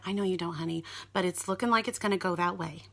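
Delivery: softly retold reassurance; a gentle, softened nurse's voice, lightly acted; calming nurse. Nurse breaking hard news to a frightened mother, gently. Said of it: "trying to keep me calm".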